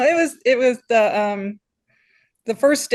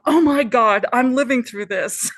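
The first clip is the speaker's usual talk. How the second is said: thrilled; 4 semitones higher, 4 dB louder than usual. Retold or imitated. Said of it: "it was just like".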